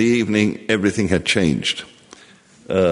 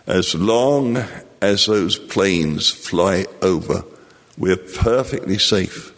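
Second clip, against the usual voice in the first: calming mother; slower than usual. Retold or imitated. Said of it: "I had to calm my mother constantly".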